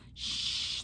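whispered shush; hush. Acted. Mother mouse hushing squealing children, whispered. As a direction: hush them fast.

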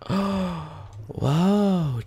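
high, drawn-out whoa after a gasp; gasp, then let out an awed whoa; amazed gasp. Real, not acted. Startled by something in game.

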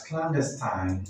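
clandestine ending in "tine", like time; alternative pronunciation. Shown as a demonstration. Teacher giving learners one of two options, clandestine with long final i. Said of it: "can be pronounced as".

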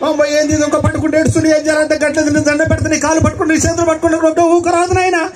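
fretting grandma. Retold or imitated. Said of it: "వాళ్ళు ఎలా మాట్లాడతారంటే".

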